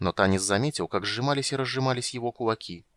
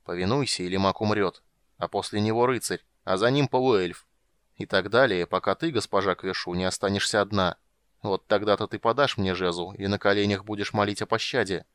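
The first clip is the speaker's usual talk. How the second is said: menacing. Acted. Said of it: "угрожающе".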